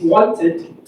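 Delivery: "wanted" slowly as "won-tid"; two syllables. Shown as a demonstration. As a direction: sound out both beats of "wanted". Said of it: "two syllable".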